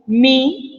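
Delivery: "mi" said as a separate syllable; syllable counting. Shown as a demonstration. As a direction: isolate "mi" while scanning verse. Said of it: "Qual é a métrica desse meu primeiro verso?".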